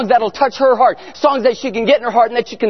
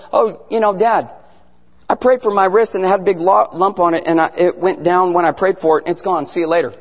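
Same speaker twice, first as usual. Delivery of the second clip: lower, offhand imitation of a daughter; nonchalant imitation; 5 semitones lower than usual. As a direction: toss it off casually, as if it were nothing. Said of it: "She's just so nonchalant about it".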